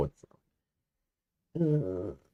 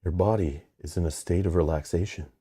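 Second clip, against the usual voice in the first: cult leader. Pretend. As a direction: lull them into a trance. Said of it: "You sound like a cult leader".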